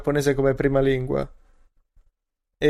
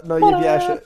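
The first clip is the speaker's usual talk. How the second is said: high cutesy voice; 3 dB louder, slower than usual. Acted. Dog wanders off, cute remark.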